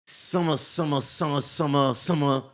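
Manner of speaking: mumbled gibberish chant, lightly mocking; mocking classmate. Kid in back of class mocking his talk, repetitive mumbled chant. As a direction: imitate a heckler aping slurred speech. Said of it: "he would just start making that noise".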